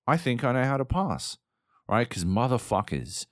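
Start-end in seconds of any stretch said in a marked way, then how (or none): 0.1-1.4 mock player's inner voice. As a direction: play the player who has finally got it after endless drills. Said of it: "until you're like".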